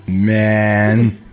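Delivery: "Man" drawn long into two syllables. Shown as a demonstration. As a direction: stretch "Man" into two beats. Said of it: "man is a two-syllable word".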